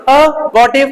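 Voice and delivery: अबॉर्टिव with no r before the t; silent r. Shown as a demonstration. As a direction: model अबॉर्टिव in parts, अ then बॉ-टिव. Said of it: "sir आर silent रहती है".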